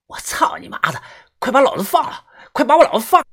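high, loud swearing yell; furious cursing. A narrator's reading. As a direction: spit curses and demand to be freed. Bound fugitive curses and demands release.

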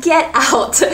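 "get out" said firm and slow. Shown as a demonstration. Teacher shows the angry phrase, firmly. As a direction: show how strong it sounds. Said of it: "only use this if you're very angry".

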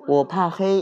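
timid little cub voice; little bear voice. Acted. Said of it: "小小熊说".

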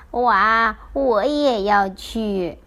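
loud wow then slow, longing words; excited child. Retold or imitated. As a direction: gasp with delight then drawl the wish. Penguin quotes Yingzi's excitement.

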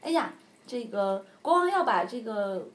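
one horse frets to another; hammed-up worried horse. Horse voiced, worried gossip.

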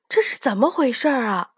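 fast, worried ask; hurried question. Acted. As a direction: rush the words out in alarm. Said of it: "老牛连忙问".

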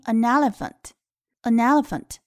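"an elephant" run together as "a-nelephant"; linked n. Shown as a demonstration. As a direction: join the n of "an" onto "elephant". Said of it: "后面的elephant的e相拼". (“an elephant”连读，n和e相拼)

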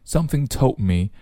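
"told me" with the d mouthed, unreleased; no audible d in "told" before "me"; silent d. Shown as a demonstration. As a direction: say "told me" as "tol-me". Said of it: "只做口型不出声音".

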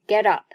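"get up" run together as one word; linked pronunciation. Shown as a demonstration. Teacher demonstrates Get和up连读, "get up" linked. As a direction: link the t of "get" into "up". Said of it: "Get 和up连读".

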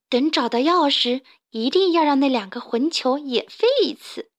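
mildly grim vow of revenge; fierce vow. Acted. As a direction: Carmen vowing revenge on the rascals, understated. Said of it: "卡门狠狠地发誓".

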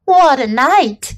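hoarse rat voice. Acted. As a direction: rasp it out hoarsely. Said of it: "he repeated hoarsely".

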